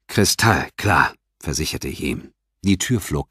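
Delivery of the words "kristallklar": drawn-out assurance. Acted. Assuring the boss.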